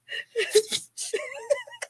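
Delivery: very high shrieking laugh; high squealing laugh. Real, not acted. Cracking up at her own story: a high, shrieking laugh.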